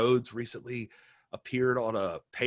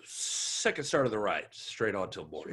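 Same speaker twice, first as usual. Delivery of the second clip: a hint of a captain giving orders; lightly voiced commanding captain, trailing off; military officer. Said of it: "He had his cool moments of being like".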